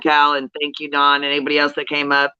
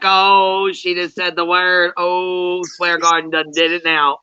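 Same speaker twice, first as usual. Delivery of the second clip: a bit higher, slow, mock outrage; mock shocked glee; 4 semitones higher, much slower than usual. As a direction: gasp at her swearing in fake shock. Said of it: "And I'm like".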